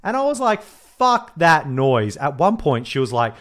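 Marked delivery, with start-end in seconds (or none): 0.6-2.2 "Fuck that noise" loud and drawn out; "Fuck that noise" as slow, forceful dismissal; emphatic retold refusal. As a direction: stretch each word of "Fuck that noise" slowly. Retelling own indignant refusal.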